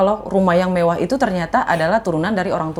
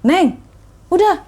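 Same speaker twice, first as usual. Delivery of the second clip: put-on consoling older man; 11 semitones higher, 4 dB louder, slower than usual. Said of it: "tiba-tiba ada bapak-bapak yang bilang".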